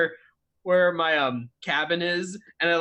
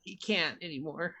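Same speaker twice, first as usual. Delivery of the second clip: put-on a wistful little boy's confession; timid kid Timmy; 5 semitones higher than usual. Timmy talks about his dog.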